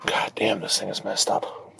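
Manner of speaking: whispered curse under breath; muttering. Real, not acted. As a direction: mutter it to yourself, annoyed. Frustrated mutter over broken part.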